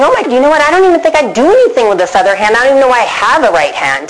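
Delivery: quick, high rush of realization; mock amazement. Five-year-old thinking about her left hand, mock amazement. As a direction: reenact a sudden discovery in a hurry.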